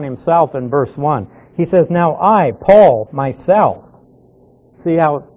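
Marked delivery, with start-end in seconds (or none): 1.9-3.8 "I", "Paul" and "myself" each set apart with a falling tune; emphatic self-naming. Shown as a demonstration. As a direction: stress "Paul" between short breaks. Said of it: "he's emphasizing there".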